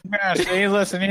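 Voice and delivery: put-on high-pitched old-time gangster voice; hammed-up nineteen-twenties wise guy; 1920s voice. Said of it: "trying to do a nineteen twenties voice".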